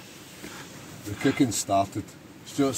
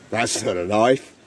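slow mock-Aussie line delivery; drawn-out, hammed-up Australian; bad Australian accent; 4 dB louder, slower than usual. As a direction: put on a cod Australian accent, slowly. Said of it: "Your Australian accent's as bad".

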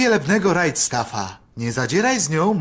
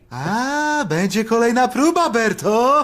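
raised pitch, excited-sounding outburst; too loud; 5 semitones higher than usual. Acted. Shopkeeper asking housekeeper about another trial, too loudly. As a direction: blurt it out too loudly for a secret.

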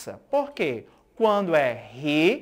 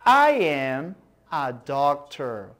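model sentence; 4 semitones lower, slower than usual. Shown as a demonstration. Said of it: "Mais uma vez".

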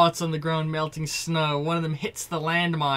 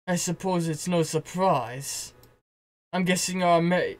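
attempted German accent. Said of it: "I can't do accents good".

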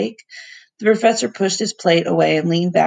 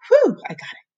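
relieved triumph. Real, not acted. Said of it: "relief after hard word".

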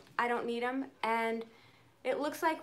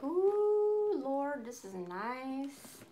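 retold delight; much slower than usual. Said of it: "I was like".

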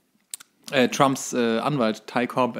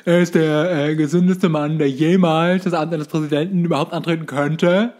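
raised, louder pompous praise; mock doctor quote; 5 semitones higher, 6 dB louder than usual. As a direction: ham up the doctor's glowing verdict. Quoting the doctor's praise of Trump. (gespielt feierliches Arztzitat, höher und lauter)

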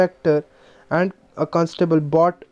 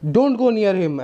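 stern warning; 5 semitones higher, much slower than usual. Acted. Inspector warns Leela away from the thief, stern warning. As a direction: hold the child back with authority.

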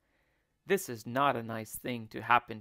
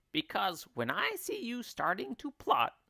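higher, scolding wife voice; warning wife; 8 semitones higher than usual. Acted. Mrs Twit warns her plotting husband, high warning voice. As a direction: warn him in a raised, pointed voice.

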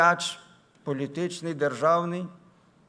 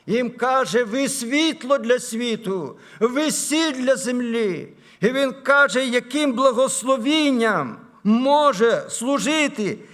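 high, ringing pulpit oratory, building in force; impassioned sermon, rising to full voice; preach; 7 semitones higher, 7 dB louder than usual. Acted.

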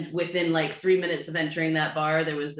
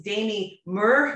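"Demi Moore" as DAY-mee MUR, Scottish; mock Scottish, long AY in "Demi", rounded-off "Moore"; imitated Scottish accent; 6 semitones higher, 5 dB louder, much slower than usual. Retelling the girl's words, imitated Scottish accent. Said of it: "with a Scottish accent".

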